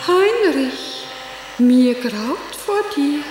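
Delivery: a hint of stagy theatrical horror, slow on mir graut vor dir; stage Gretchen. Actress wife quoting her stage line to her sister, lightly theatrical. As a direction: declaim it like on stage. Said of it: "so wie ich auf der Bühne sagte".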